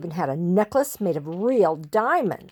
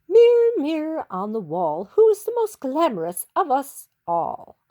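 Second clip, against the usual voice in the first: mock wondering; 5 semitones higher, 4 dB louder than usual. A narrator's reading. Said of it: "she wondered".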